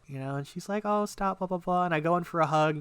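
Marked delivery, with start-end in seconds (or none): 0.8-1.8 higher-pitched imitation of a coy reply; flattered girl. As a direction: play her bashfully waving off praise. Acting her bashful reply to compliment.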